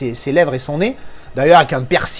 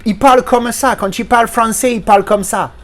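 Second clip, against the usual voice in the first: mocking a foreigner's accent in French, raised pitch; put-on foreign accent in French; bad French accent; 4 semitones higher, 3 dB louder than usual. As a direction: imitate a badly accented French speaker. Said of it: "on n'a pas l'accent comme ça".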